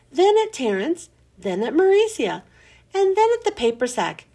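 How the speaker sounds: lively read-aloud for kids, voicing each character a little; expressive children's book narration; storytime reading. A narrator's reading. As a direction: tell it like a bedtime story to a class. Reads a chapter to children.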